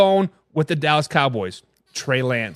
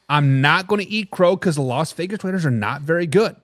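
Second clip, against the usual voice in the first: normal talking voice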